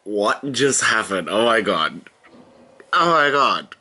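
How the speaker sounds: stunned, excited disbelief; can't believe what just happened; gasping fan excitement; fangirling. Real, not acted. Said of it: "this is me fangirling right now".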